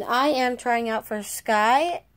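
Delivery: slow, deliberate character voice. Acted. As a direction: stay in the audition voice, unhurried. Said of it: "wait, I'm still doing the voice".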